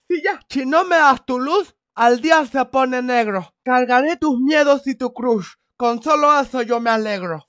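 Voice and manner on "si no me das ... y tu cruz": dictating. Acted. Dictates a poem to copy.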